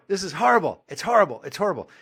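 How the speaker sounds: high-pitched imitation of a complaining child; insistent little-boy whine, tailing off; whining kid. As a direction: mimic a bratty kid's protest. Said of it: "And the kid goes".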